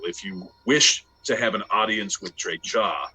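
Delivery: bar the way like a temple guard; stern guardsman. Acted. Guardsman NPC blocks the way.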